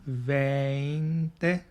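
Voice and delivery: veinte repeated slowly, each syllable clear; repeated model word. Shown as a demonstration. Teacher repeats veinte for the class, carefully. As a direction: say veinte again for them to copy. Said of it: "I repeat".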